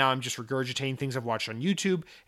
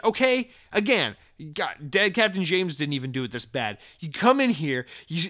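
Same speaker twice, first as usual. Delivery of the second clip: ordinary talk, nothing marked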